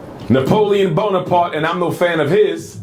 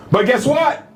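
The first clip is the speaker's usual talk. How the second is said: "But guess what?" pitched up and lifted, teasing the reveal; a bright raised "But guess what?" before the punchline; lifted question; 5 semitones higher than usual. Real, not acted. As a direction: toss "guess what" up high to grab the room. Rhetorical turn in a speech.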